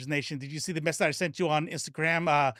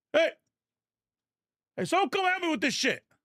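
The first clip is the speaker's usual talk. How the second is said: very high, squeaky, high-pitched voice; 13 semitones higher than usual. Doing an impression of dad struggling with a phone: imitating dad. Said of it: "That's my dad".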